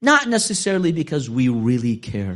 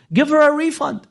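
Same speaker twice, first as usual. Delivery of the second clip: insistent plea; 5 dB louder than usual. Acted. Imam insists to the seller.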